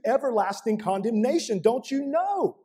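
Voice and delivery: rising rebuke, Paul pressing his readers with questions; Paul's rebuke. Retold or imitated. Preacher voicing Paul rebuking the Corinthian church, mounting urgency.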